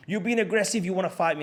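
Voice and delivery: worked up. Retold or imitated. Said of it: "he got his knickers in a twist".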